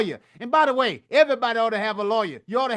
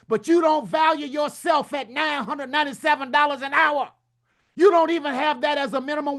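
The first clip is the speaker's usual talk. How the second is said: hollering; 3 semitones higher than usual. Real, not acted. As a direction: drive it home, raised voice. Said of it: "I ain't hollering at you".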